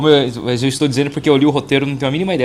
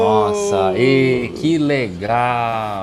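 sarcastic; much slower than usual. Acted. Sarcastic reply to news.

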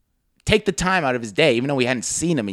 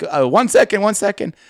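Hassan; 6 semitones higher, 4 dB louder than usual. Retold or imitated. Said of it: "And Hassan's like".

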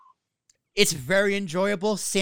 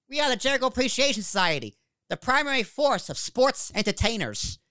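higher, mock-grand announcer proclamation; wrestling faction introduction; 7 semitones higher than usual. Co-host mimics the faction's tagline, mock announcer proclamation. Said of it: "He's like".

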